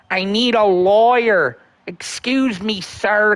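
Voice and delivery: slow put-on imitation voice; Josh Block impression. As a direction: drag it out like a mock Josh. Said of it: "Who's your favorite impression to do out of all the Cals? Uh, Josh".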